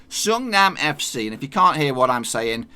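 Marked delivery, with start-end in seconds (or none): 0.1-1.3 higher, slow "Seongnam F C" as "SUNG-nam F C"; say-along pronunciation. Shown as a demonstration. Host inviting viewers to join in, slow "Seongnam" as "sung-nam". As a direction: lead learners through "sung-nam F C" for "Seongnam F C". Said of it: "Say it with me".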